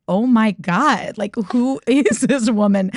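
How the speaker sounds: slow, amused laughing exclamation; amused boyfriend laughing at her; laughing disbelief. Retold or imitated. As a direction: laugh through the words in disbelief. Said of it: "Jake was just laughing at me".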